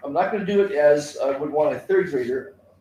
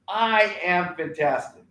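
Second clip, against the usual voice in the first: slow rally call; 2 semitones higher, slower than usual. Shown as a demonstration. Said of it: "have them look to you and say".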